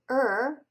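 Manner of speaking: "Er" drawn out as in fur; slow, isolated "Er"; ER sound. Shown as a demonstration. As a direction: sound out a long "Er", like the vowel in fur. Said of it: "as in fur".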